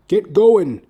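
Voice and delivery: high, loud rallying call; urging shout. Retold or imitated. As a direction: snap him into motion. Mentor's exhortation previewed.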